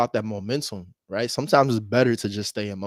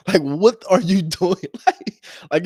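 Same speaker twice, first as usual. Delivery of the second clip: incredulous; 8 semitones higher, 6 dB louder, slower than usual. Retold or imitated. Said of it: "She said, like".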